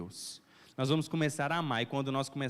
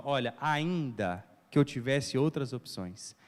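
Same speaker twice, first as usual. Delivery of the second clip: voice of godly love; 4 semitones lower than usual. Retold or imitated. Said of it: "Esse fruto aqui faz assim".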